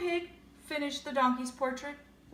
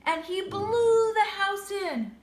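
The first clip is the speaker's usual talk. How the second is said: dramatic climax; 7 semitones higher, 6 dB louder than usual. A narrator's reading. Climax of blowing house.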